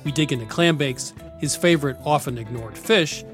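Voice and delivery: lively radio show intro; upbeat travel show host. Acted. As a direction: announce the episode with energy. Show intro over music.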